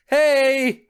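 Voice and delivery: loud call across a hallway; yelling. Acted. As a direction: shout it to get attention. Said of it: "I hear someone yell".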